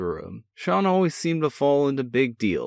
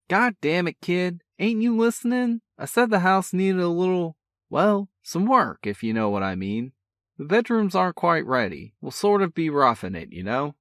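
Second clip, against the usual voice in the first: a cocky big brother, full of energy; brash older brother; 8 semitones higher than usual. A narrator's reading. Older brother teasing on the phone, brash and cheerful. Sean voice, exasperated.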